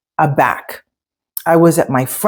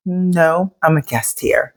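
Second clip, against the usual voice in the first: calm, softer reply to a rude question; 3 dB quieter than usual. Retold or imitated. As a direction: keep it softer and composed, no bite. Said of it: "I very calmly looked at him and I said".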